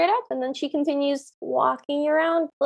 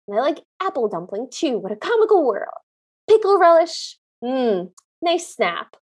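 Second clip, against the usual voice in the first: put-on quirky old lady; 5 semitones lower than usual. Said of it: "keeps repeating it and says".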